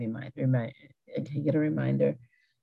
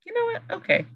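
high, resigned "fine then"; exasperated giving in. Retold or imitated. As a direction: throw up your hands and give in. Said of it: "I'm like".

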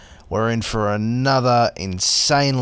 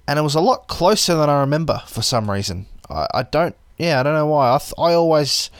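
chewing tobacco; 3 semitones higher than usual. Real, not acted. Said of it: "I'm gonna take this chewy out of my mouth".

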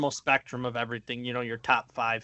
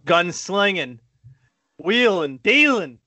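mock hype; 4 semitones higher, 4 dB louder than usual. Mock hype of a backup quarterback.

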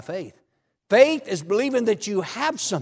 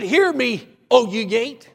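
loud, ringing command to the gate; commanding shout; 3 semitones higher, 6 dB louder, slower than usual. Retold or imitated. Preacher prophesying to the prison gate, commanding shout.

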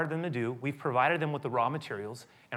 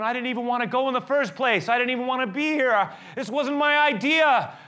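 high, loud protesting; defensive Moses; 10 semitones higher, 6 dB louder than usual. Acted. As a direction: whine that it wasn't your idea. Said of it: "I'm going".

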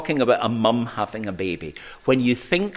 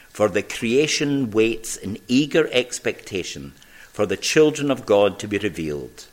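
scripture reading. Acted. Reads Romans eight aloud.

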